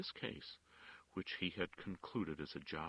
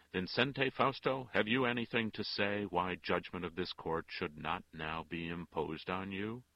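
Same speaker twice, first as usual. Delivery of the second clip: court crier calling out; 3 semitones higher, 8 dB louder than usual. A narrator's reading. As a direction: announce the name to the whole court. Court crier calls defendant.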